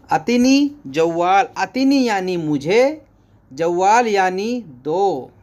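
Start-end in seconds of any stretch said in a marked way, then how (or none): none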